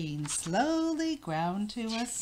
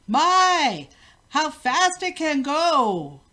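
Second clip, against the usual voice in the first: very loud astonished shout; amazed call; 5 semitones higher, 9 dB louder, much slower than usual. A narrator's reading. King calls out as the machine races off, astonished. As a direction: call out in wonder at the speed. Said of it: "Called the king".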